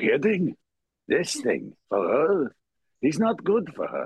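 put-on swooping, rough, sort-of Russian accent. You show the voice you loved in a movie musical: Fiddler on the Roof star voice, sort of Russian. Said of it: "like a Russian sort of".

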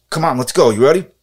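put-on jerk coach voice. Imitating a friend's bit as a volunteer assistant coach: imitating Nicky's jerk coach voice. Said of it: "he sounds like every jerk coach".

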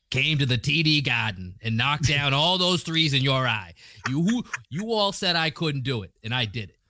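attempted put-on Boston accent. Asked by a co-speaker to do it in a boston accent, boston accent. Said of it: "Do it in a Boston accent".

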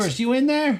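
high-pitched female voice. Voicing someone tapping on the tent flap, in a woman's voice. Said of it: "It's like a woman's voice".

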